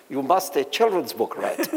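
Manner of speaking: slow, mock heavy German accent. German publisher pressing a young writer at a party, mock German accent. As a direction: imitate the old German publisher's accent, slowly. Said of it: "say in his heavy accent".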